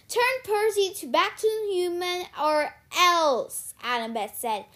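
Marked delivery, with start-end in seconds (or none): 0.1-3.7 loud, raised ultimatum; threatening demand. A narrator's reading. Annabeth threatens the sorceress.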